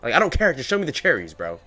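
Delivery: mock insistent demand, rising; retold demand. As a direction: push harder each time you ask. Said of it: "I'm like".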